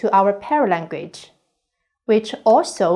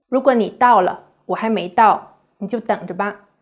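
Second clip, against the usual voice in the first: threatening; faster than usual. Shown as a demonstration. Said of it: "Listen to these two Chinese sentences".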